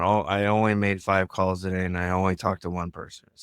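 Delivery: mildly downcast confession, inflection going down; a little sad. Shown as a demonstration. Associate reporting a poor day to coach, a little sad. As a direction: let it drop slightly, as if apologizing for the result. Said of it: "my voice was a little bit lower and I was sad about it".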